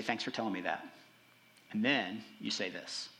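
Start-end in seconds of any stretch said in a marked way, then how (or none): 0.0-0.9 soft, low and gentle, just receiving it; gentle thanks. Shown as a demonstration. Pastor showing the listener how to reply, softly. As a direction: calmly thank them for opening up.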